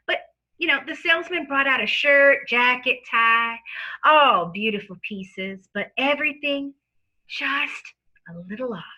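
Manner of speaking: sleazy lawyer with a fake Southern accent. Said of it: "dons a false Southern lawyer accent".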